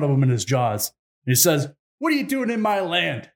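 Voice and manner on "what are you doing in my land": raised-pitch scolding, lightly acted; mock indignant challenge. Wolf confronts birds on his land, mock indignation. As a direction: play at confronting a trespasser.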